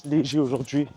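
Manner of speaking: talking mid-jog, light breaths; while running. Real, not acted. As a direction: speak as you run at easy pace. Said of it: "Je vais essayer de parler en courant". (en parlant pendant la course)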